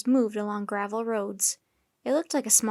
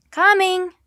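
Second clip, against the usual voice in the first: deep-voiced shout; 8 semitones higher, 10 dB louder than usual. A narrator's reading. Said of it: "Jack shouted in his deepest voice".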